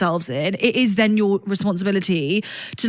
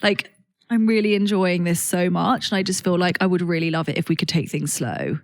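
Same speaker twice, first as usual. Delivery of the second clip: sexy voice; 4 semitones lower than usual. Shown as a demonstration. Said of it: "say it in a sexy voice".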